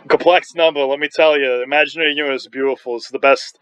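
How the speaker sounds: light, playful New York accent. Shown as a demonstration. Demonstrating his accent for buddies in Japan, New York accent. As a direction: put on a bit of New York. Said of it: "I was doing my New York accent".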